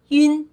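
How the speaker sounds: yun as a single compact syllable; one-syllable yun. Shown as a demonstration. Teacher drilling learners, yun in one syllable. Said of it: "One syllable".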